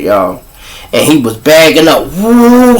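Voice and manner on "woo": loud, high-pitched "woo"; high imitated whoop. Imitates the scene's wailing outcry.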